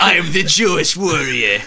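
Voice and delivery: booming heroic declaration; superhero voice. Pretend. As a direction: announce yourself like a hero. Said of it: "You sound like a superhero".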